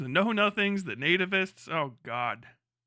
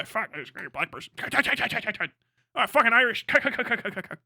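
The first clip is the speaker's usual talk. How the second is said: mock nativist thug; faster than usual. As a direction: mutter it like a casual killer. Mocking nativist stabbers.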